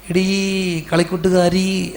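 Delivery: put-on slow, drawn-out call to a childhood friend; mock sentimental address. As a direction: stretch it out like a sentimental autograph. Reading out a school farewell autograph.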